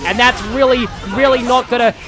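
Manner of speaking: put-on broad Australian accent throughout; hammed-up Australian accent while gaming. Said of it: "I need to keep up this accent".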